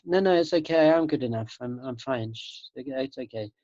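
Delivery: put-on calm the inner critic like a baby; soothing self-talk. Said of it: "treat your mind like a baby".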